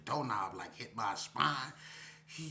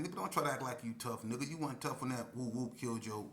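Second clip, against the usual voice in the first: cruel taunt; 3 semitones higher than usual. Retold or imitated. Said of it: "I ended up saying".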